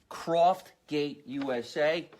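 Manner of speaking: "Croftgate U S A" spelled out slowly, letter by letter; slow emphatic repeat. Shown as a demonstration. Plugging the sponsor's name to viewers, said very slowly. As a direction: stretch out "Croftgate U S A" so it sticks.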